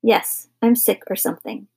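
sour, understated savagery. Acted. Father answering his son's question, savage but restrained. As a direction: bite back with mild venom. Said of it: "said Mister Carmody savagely".

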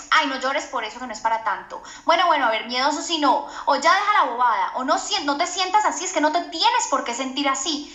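dismissive parent. Retold or imitated. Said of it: "papá o mamá le dice".

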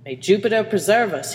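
mild weary sigh. Acted. Engineer to himself on putting in a cigar, mild sigh. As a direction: say it as a light sigh. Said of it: "he sighed".

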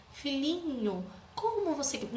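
coddle the child, hammed-up; mock coddling. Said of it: "não é aquela conversa que você tem que ter". (imitação de mãe melosa)

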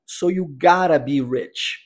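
"So you gotta be rich" said slowly, with "gotta" tapped; slow model sentence for learners; slow model line. Shown as a demonstration. Teacher modelling the sentence for students, slow. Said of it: "a pronúncia fica gotta".

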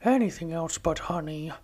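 lightly voiced Winnie the Pooh; a gentle hint of Pooh Bear reading his diary; Pooh impression. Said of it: "I have developed a decent impression of Pooh".

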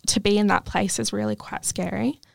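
choking up, voice close to tears; holding back tears while speaking; teary. Real, not acted. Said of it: "Sorry, I'm getting teary".

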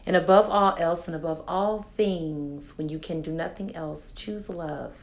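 earnest affirmation read, each line landing soft; formal closing. Acted. Host giving listeners her formal closing affirmations. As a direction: speak straight to the listener, steady and sincere.

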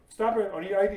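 high, loud imitation of an officer's order; sheriff's demand. Sheriff demanding identification, retold stern demand. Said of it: "giving me the business".

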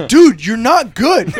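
exasperated dude. Retold or imitated. Opponent tells the trash-talking kid he's bad. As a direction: deliver the verdict flatly. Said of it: "this dude goes".

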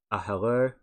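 light mock Mexican accent; a hint of a Mexican accent. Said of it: "doing this Mexican accent".

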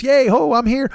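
high, put-on eager cheer; mock cheerful. Texting that he's here again, hammed-up cheer. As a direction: fake hooray, climbing towards cartoon pitch.

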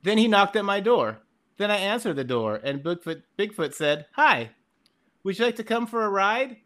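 put-on reading a childhood story aloud; story recital. Reading his childhood Bigfoot story to the hosts, a mock recital. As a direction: recite it like a kid's tale. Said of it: "this is a good one".

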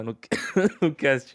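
choked, laughing through it; coughing mid-sentence after swallowing wrong; choking on a drink. Real, not acted. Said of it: "Até me engasguei aqui".

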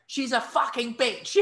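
bitter insult. Retold or imitated. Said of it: "the guy was like".

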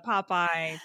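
usual speaking voice

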